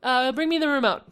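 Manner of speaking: high, slow mock sweet-talk; exaggerated everyday boyfriend request. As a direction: call out the pet name mockingly. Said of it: "you're gonna have to be like".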